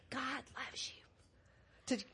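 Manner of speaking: soft slow whisper. Shown as a demonstration. Children's pastor showing the kids a whispered praise. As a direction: breathe it out very quietly. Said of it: "whisper real quietly".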